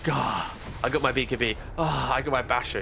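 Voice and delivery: acted relieved exhale into words; lightly played relief, sighing the exclamations. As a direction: let out a mock "gah" of relief. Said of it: "it's a sigh of relief".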